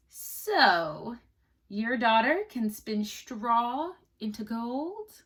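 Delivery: slow, drawn-out doubting king; doubtful king. Acted. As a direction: weigh every word like a suspicious king. King questions the miller.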